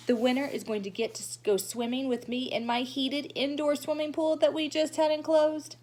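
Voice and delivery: lightly voiced boastful little girl, rising to her own name; showing-off girl. Lucille boasting to the class about her prize, lightly voiced and showy. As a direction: brag sweetly, then sing out your name.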